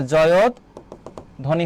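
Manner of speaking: জয়ধ্বনি very slowly in two parts, joyod, pause, dhoni; careful pronunciation. Shown as a demonstration. Teacher repeating an important word for students, slow careful pronunciation. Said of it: "এর উচ্চারণটা গুরুত্বপূর্ণ কিন্তু".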